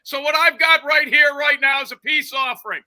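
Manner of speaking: roast him with fake generosity; mocking rant. Continues mock peace offering.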